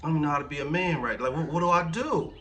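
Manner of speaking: put-on a touch of the tearful young husband; half-acted desperate prayer in the bathroom; retold crying prayer. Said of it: "I was, like, crying".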